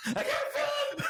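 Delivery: high mock scream of pain; shouting while wounded. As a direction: yell it like your legs are crushed.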